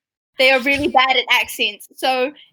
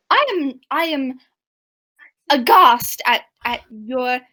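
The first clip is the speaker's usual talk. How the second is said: halting attempt at a French accent; failed French accent; 4 semitones lower than usual. Player faltering as the accused thief, failed French accent. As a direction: fumble a French accent, word by word. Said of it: "I can't do a French accent".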